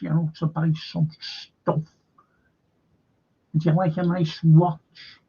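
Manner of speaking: a hint of a smug Zelensky showing off his shopping; Zelensky impression. Mocking streamer voicing Zelensky to his wife, lightly voiced. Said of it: "That's the Zelensky".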